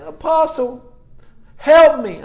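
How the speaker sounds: high, loud mock plea; pleading caller. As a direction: imitate a desperate caller crying out for help. Voices a caller pleading for help.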